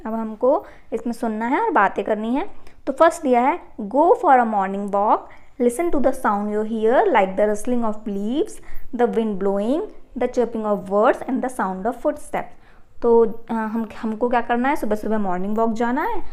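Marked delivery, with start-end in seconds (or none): 3.8-12.5 slow, careful reading aloud for pupils; slow textbook reading. Acted. Teacher reading the task aloud to pupils, slow and deliberate. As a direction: read each English word out slowly and clearly.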